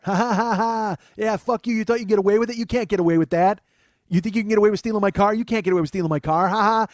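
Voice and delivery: loud, high mock cackling gloat; malicious laughing taunt. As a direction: imitate her crowing and laughing at the captives. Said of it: "like, maliciously laughing".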